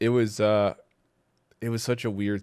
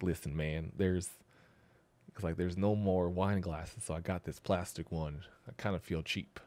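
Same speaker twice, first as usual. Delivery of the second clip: impression of Chris; 6 dB quieter than usual. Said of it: "all the impressions".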